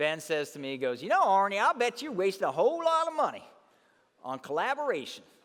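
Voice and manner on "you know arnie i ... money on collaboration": put-on strong, real, loud, swooping Southern accent. Retelling what a colleague from Atlanta said: imitating a Southern accent. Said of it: "he got a Southern accent, real Southern".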